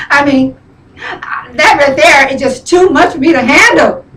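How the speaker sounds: crying through the words; tearful. Real, not acted. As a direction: voice breaking with tears. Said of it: "I don't mean to be crying".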